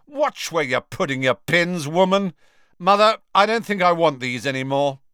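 high, indignant complaint; angry bellow. A narrator's reading. Spoilt boy scolding the seamstress, then complaining to mother, indignant. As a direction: snap indignantly at a servant, pitched high. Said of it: "bellowed Malfoy".

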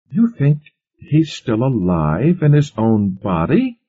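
high, loud incredulous question; demanding. A narrator's reading. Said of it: "Eleanor demanded".

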